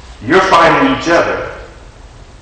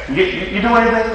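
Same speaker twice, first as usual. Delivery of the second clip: caller's voice; 10 semitones higher, faster than usual. Retold or imitated.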